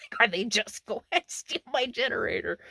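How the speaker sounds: laughing disbelief. Retold or imitated. Camper fretting over her generator, laughing disbelief. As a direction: laugh through the worried question.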